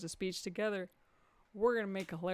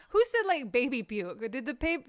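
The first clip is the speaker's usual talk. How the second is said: laughing; 3 semitones higher, 5 dB louder than usual. Real, not acted. Laughing reaction.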